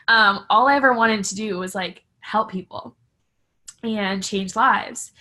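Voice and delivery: slowing down, choked up a little; getting emotional. Real, not acted. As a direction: hold back real tears as you finish the thought. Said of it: "I always get emotional when I talk about my mom".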